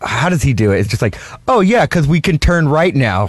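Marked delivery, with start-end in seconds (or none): 1.5-3.3 lightly voiced buddy impression; Billy. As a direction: imitate a friend's easy patter, lightly. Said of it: "our buddy Billy does the".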